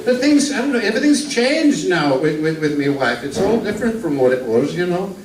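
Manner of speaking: lightly voiced speaker. Introduced old northern comic telling jokes to the crowd, lightly voiced. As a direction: ease into a genial old music-hall comedian.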